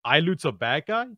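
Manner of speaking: mock surprise. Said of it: "he did this meme where he's like".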